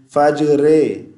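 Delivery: फजरे ending in a long रे vowel; wrong reading. Shown as a demonstration. Teacher showing the mistaken ending to viewers. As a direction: end फजरे on a drawn-out रे sound. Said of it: "रे नहीं पढ़ना".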